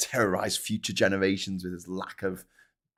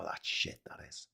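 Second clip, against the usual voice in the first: posh Prince Charles; 9 semitones lower, 14 dB quieter than usual. Retold or imitated. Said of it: "I go / You sound like Prince Charles".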